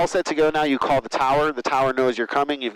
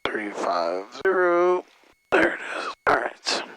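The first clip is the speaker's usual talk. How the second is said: hushed whisper under the breath; 2 semitones higher, slower than usual. Real, not acted. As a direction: whisper it to yourself while busy. Whispered while setting the heading.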